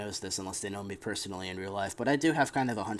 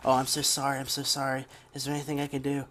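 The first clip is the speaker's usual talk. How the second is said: lightly mocking a gushing apology, a bit raised; a touch of syrupy, insincere sorry; fake sympathy; 3 semitones higher than usual. Coworker apologizing after making him cry, fake sympathy. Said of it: "she did that fake sympathy".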